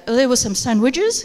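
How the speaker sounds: "sandwiches" rises as an unfinished item; rising list tone. Shown as a demonstration. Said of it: "rising tone and falling tone at the end".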